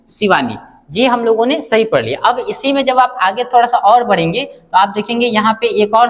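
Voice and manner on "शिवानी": शिवानी said lower, with the last नी kept short and unstretched; unstretched final syllable. Shown as a demonstration. Teacher modelling शिवानी with a short, unstretched नी. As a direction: drop low and keep नी short. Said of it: "इस पे हमको stretch करने की जरूरत नहीं पड़ती है".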